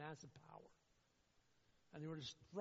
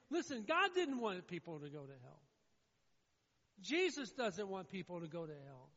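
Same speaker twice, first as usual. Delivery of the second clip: loud preacher's appeal, falling away at phrase ends; impassioned sermon delivery; forceful preaching; 6 semitones higher, 9 dB louder than usual. Real, not acted. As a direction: drive it home to the congregation, then let each line sink.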